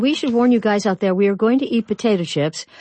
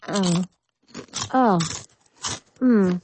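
short, spaced-out moans of relish while crunching; 3 semitones lower, slower than usual. Pretend. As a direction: moan over a mouthful of potato chip. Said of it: "quite a moan there".

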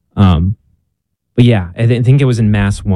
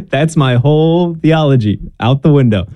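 high, amused mock despair; rueful, higher mock defeat; laughing dismay; 6 semitones higher than usual. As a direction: laugh through the admission of defeat. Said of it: "And I was like".

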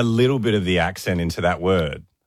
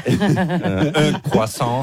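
put-on French accent; 4 semitones higher, much slower than usual. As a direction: say un croissant the French way, laughing. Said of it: "Do it how you did it this morning".

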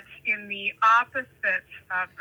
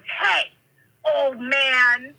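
imitated hostile hail; confronting call; 3 semitones higher, 3 dB louder, much slower than usual. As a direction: challenge him as the fuming grandmother. Grandmother confronts man, retold.

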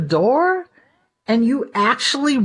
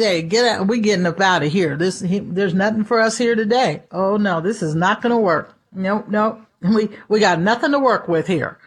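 defeated devil; 5 semitones lower than usual. Retold or imitated. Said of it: "he told his little demon buddies".

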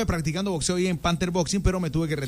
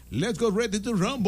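slow drawn-out ring announcer call; ring announcer catchphrase; 4 semitones higher, 3 dB quieter than usual. Retold or imitated. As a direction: stretch it like a big fight intro. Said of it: "de que".

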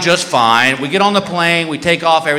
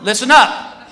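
public announcement; 3 semitones higher than usual. Retold or imitated. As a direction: announce it firmly to the crowd. Guard addresses whole security line.

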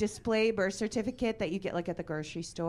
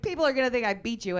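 husband's protest; 5 semitones higher, 6 dB louder, faster than usual. Retold or imitated. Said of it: "He's like".

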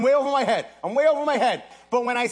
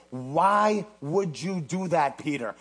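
slow chiding question; 6 semitones lower, slower than usual. Retold or imitated. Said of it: "You say".

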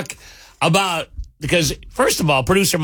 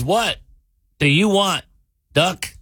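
higher-pitched bartender's question; lightly acted bartender, pitched up; lightly voiced bartender; 4 semitones higher than usual. Bartender asks the returning duck what it wants, lightly acted. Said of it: "Walks down there and goes".

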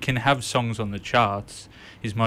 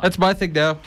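mock diva voice; 8 semitones higher, 6 dB louder than usual. Mocking a singer claiming something.

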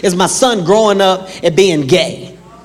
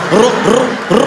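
corduroy swish sound; slower than usual. Retold or imitated. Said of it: "All I heard was".

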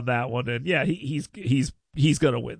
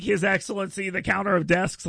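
derisive; 4 semitones higher than usual. Retold or imitated. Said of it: "like, derisively".

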